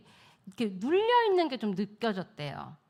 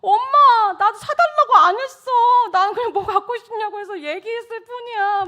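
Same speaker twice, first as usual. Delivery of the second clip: imitating a son's high, loud whine; hammed-up boy's wail; wailing protest; 12 semitones higher, 11 dB louder than usual. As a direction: protest innocence to mum at the top of the voice. Son protesting mother's scolding.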